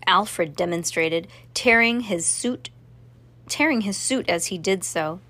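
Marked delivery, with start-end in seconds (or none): none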